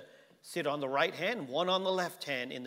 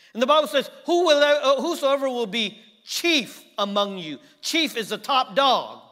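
much higher and louder proclamation; shouted scripture; 8 semitones higher, 12 dB louder than usual. Real, not acted. Pastor proclaiming the verse to the church, loud and high. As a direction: proclaim it like a herald.

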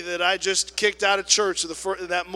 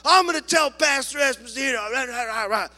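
loud, higher parody of her tirade; mock angry threat; 7 semitones higher, 6 dB louder than usual. Lady threatens to tell the pastor, mock anger. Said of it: "she started chewing me out".

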